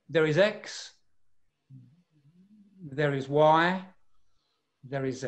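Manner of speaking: slow, with long gaps between statements; drawn out, unclipped. Shown as a demonstration. Coach showing the wrong rhythm for authority, drawn out. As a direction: stretch X, Y and Z, pausing long after each. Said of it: "It wouldn't be".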